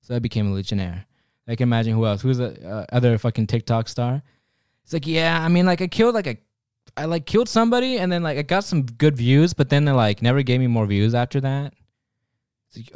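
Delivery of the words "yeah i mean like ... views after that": airhead influencer voice. Pretend. TikTok star explains himself.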